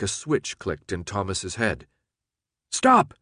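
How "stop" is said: sudden high, loud yell. A narrator's reading. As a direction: yell it out to halt the driver. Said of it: "he yelled".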